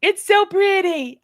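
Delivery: high, loud and drawn out; gushing. Real, not acted. Admiring the dog's sweater, high and slow gush. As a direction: swoon over how pretty it is.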